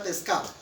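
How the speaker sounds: "pescado" said as "pescao", no d; coastal dropped d. Shown as a demonstration. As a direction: drop the d in "pescado", coastal style. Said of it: "Mayormente los costeños". ("pescado" dicho "pescao", a lo costeño)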